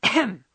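loud throat-clearing ahem. A narrator's reading. Jo about to read her story aloud, loud ahem. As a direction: clear your throat loudly before reading. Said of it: "With a loud ahem".

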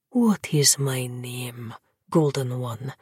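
slow low breathed question; breathy whisper. Acted. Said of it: "that dark prince breathed".

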